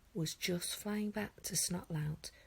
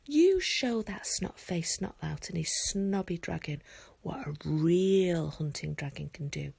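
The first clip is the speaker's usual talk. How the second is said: urgently; 7 dB louder than usual. Acted. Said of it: "said Hiccup urgently".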